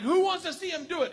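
imitated host, pitched high; rallying the crowd. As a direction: rouse the audience with a mock announcer's call. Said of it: "says to the crowd".

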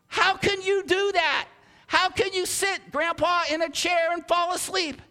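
put-on high, loud child's question to grandpa; amazed little kid, stretched-out words; incredulous kid. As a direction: pitch it way up, loud and disbelieving. Child asking napping grandpa.

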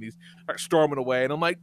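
normal talking voice

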